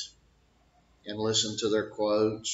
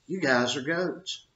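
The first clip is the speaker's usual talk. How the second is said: higher-pitched coach's call-out; raised pitch, teasing the team; provoking call-out; 6 semitones higher, 3 dB louder than usual. Acted. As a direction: toss it at the fighters, pitched up. Coach provoking his fighters, acted.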